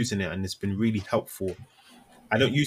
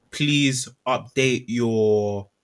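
slow, emphatic reading of an email in capitals; email in caps; 4 dB louder, much slower than usual. Acted. Line manager writing to staff in caps, slow and emphatic. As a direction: spell out each word heavily, a touch louder. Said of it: "in caps".

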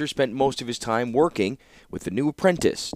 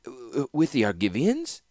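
hiccuping; 4 semitones higher than usual. Acted. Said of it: "hiccuped the Sensual".

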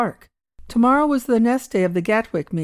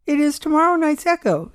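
calm; 8 semitones higher than usual. Acted. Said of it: "said the old man calmly".

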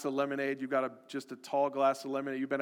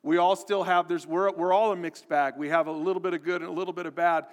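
ordinary delivery

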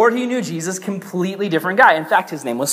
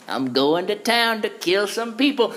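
carefree rider; 4 semitones higher, 4 dB quieter than usual. Acted. Voices Saul riding his horse.

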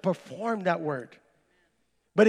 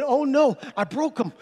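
mock alarm; 5 semitones higher than usual. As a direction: react as if you've just broken something. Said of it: "I'm thinking".

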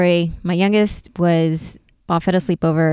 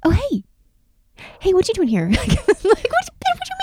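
put-on much higher drunk critter voice; sly hamster voice. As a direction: play the guilty hamster.

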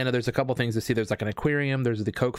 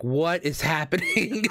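slow, higher, breaking into laughter; laughing disbelief; 6 semitones higher, slower than usual. Real, not acted. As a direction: ask it while cracking up. Bewildered by the costumed bellboy.

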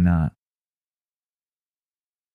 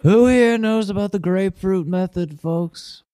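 Trump impression; 8 semitones higher than usual. Trump rally bit.

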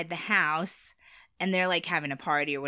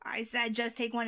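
scary voice; 4 semitones higher, 5 dB quieter than usual. Retold or imitated. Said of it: "doing a scary voice".

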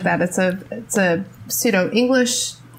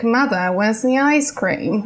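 lightly put-on Grey Gardens Mid-Atlantic accent; mock Mid-Atlantic, as if unable to help it. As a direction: slip into pseudo-British old-money Mid-Atlantic. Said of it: "five minutes of Grey Gardens".

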